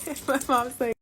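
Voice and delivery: normal talking voice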